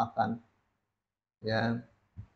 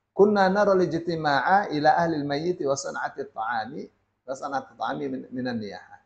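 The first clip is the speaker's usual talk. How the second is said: measured formal reading of a classical Arabic passage; Arabic text recitation; 3 semitones higher than usual. Acted. Teacher reads the Sheikh's Arabic passage to the congregation, measured recitation. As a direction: read the Arabic text aloud steadily, as from the book.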